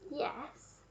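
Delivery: soft, hesitant reply; nervous murmur. A narrator's reading. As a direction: murmur it shyly. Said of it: "I murmured nervously".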